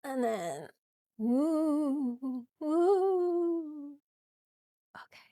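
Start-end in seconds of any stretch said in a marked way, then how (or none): 1.2-3.9 high, long ghostly woos; playful ghost woo. Pretend. Yoga teacher insisting on ghost noises, playful woos. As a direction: woo like a pretend ghost, rising higher. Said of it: "The woos are the most important part".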